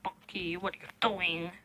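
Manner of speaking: soft unvoiced whisper. Real, not acted. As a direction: whisper so the cat stays calm. Whispering near the cat.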